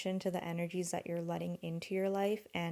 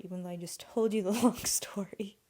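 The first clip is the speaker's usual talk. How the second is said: laughing aside; 4 dB louder than usual. Real, not acted.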